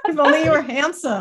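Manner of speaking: laughing repeat. Real, not acted.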